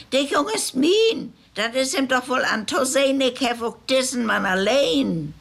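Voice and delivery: a hint of a defiant old woman. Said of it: "sagt der Olsch".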